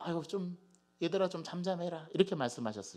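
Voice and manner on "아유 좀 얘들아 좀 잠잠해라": put-on tiny, weak, faint voice without strength. Asking listeners to imagine how he might have said it, act out a put-on tiny, weak voice. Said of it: "아주 자그마한 소리로 힘없이".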